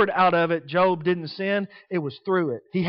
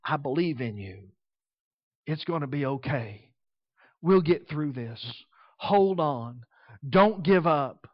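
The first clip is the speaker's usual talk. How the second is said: tender encouragement; 4 semitones lower, 3 dB quieter than usual. Retold or imitated. Wife softly reassuring her suffering husband, tender. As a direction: comfort him gently, a touch hushed. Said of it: "supposed to tell him".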